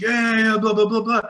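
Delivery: high, loud mock brush-off; dismissive cabbie. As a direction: wave her off like a rude cabbie.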